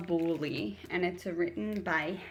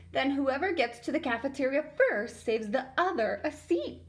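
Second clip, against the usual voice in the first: higher excited squeal; 7 semitones higher than usual. A narrator's reading. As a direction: squeal it with glee. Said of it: "Carla squealed".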